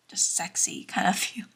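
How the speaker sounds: giggling through the words; embarrassed giggle; laughing. Real, not acted.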